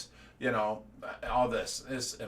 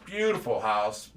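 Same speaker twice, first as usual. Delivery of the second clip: ordinary delivery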